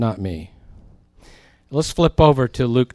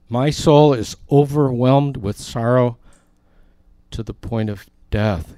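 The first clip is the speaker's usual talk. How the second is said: anguished quote. Retold or imitated. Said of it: "he said to them".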